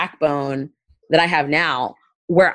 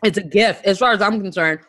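talking around ice cubes; words muffled by ice in mouth; mouth full; 4 semitones higher, faster than usual. Real, not acted. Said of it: "sorry, I have ice in my mouth".

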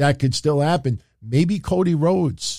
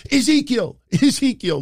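high-pitched mock cry; 10 semitones higher than usual. Beaten wrestler answering his rival, high mock cry. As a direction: call the name way up high, in imitation. Acted reply of a wrestler begging off.

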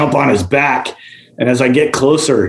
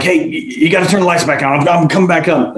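higher, mock-panicked plea; retold freak-out; 5 semitones higher than usual. Diver to topside about the lights, retold freak-out. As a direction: imitate a rattled man demanding to come up. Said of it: "just freaking, freaking the F out".

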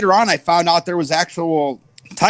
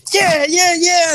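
pumped-up hype yell, much higher; fired-up yell; 12 semitones higher, 3 dB louder, slower than usual. Retold or imitated. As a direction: shout it like a wrestler charging in. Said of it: "supposed to be all, like, fired up".

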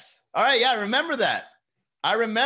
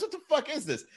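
higher, mocking disbelief; imitating bully friend; 11 semitones higher than usual. Bully friend grabbing the egg baby, mock taunt. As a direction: toss it out high and taunting. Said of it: "He looks at it and goes".

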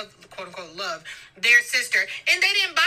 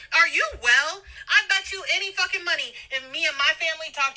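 heated rant; 4 semitones higher than usual. Acted. Ranting back at Bartise.

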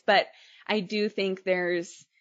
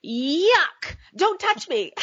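higher, mock-disgusted child voice; sassy little girl; 9 semitones higher, 4 dB louder, much slower than usual. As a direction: imitate a kid pushing away a kiss. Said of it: "She said".

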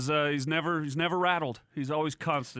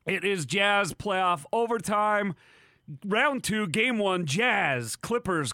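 slow, punchy show intro; announcer; slower than usual. Acted.

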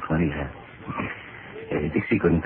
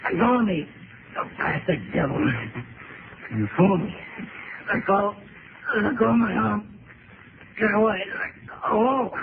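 shrieking high in panic, fighting to break free; terrified screams; 13 semitones higher than usual. Acted. Man grabbed by a monster screams in terror to be let go. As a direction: yell it like something has grabbed your arm. Man seized by creature, struggling.

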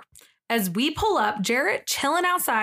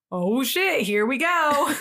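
higher, breaking into laughter; amused alarm; 3 semitones higher, slower than usual. Acted. Zola seeing the screenshot shown, amused alarm. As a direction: exclaim it, then crack up. Acts out reaction, then laughs.

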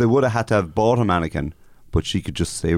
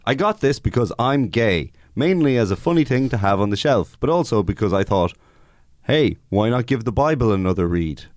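measured, slightly raised read-out voice; reading a review aloud; 3 semitones higher than usual. Acted. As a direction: read it out to the guessing panel. Reads out an online review.

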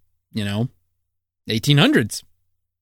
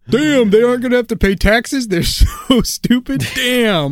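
incredulous; 10 semitones higher, 4 dB louder than usual. Real, not acted. Incredulous laughing reaction.

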